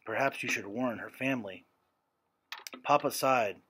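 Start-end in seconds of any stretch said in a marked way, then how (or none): 0.1-1.7 softer, hesitant suggestion; timid. A narrator's reading. Neighbor timidly suggests warning the girl's family, softer and hesitant. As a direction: offer it timidly, barely daring to speak. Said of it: "Timidly, Missus Keller said".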